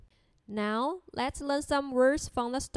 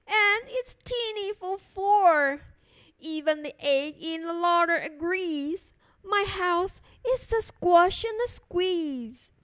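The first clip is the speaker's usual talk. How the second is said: louder, drawn out plea; old lady cries out; 4 semitones higher, 5 dB louder than usual. Acted. Old lady crying out over her crowded house. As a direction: beg them to stop, exasperated. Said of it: "The little old lady cried".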